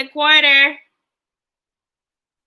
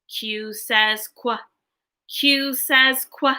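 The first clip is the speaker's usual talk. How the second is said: letter-sound demo; slower than usual. Shown as a demonstration. Teacher demonstrates letter sound.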